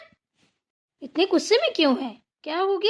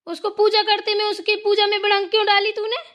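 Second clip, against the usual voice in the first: high-pitched accusing demand; indignant mother-in-law telling-off; angry scolding; 6 semitones higher than usual. Acted. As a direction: scold her, voice pitched up throughout. Mother-in-law scolds over interrupted prayer.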